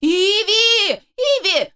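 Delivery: high, loud desperate call; pleading cry. Acted. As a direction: cry out her name to stop her. Charles pleading, crying out.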